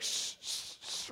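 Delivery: soft unvoiced shushing; shushing babies. Father hushing the twins so they stay quiet. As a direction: hush the babies gently. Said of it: "So you're like".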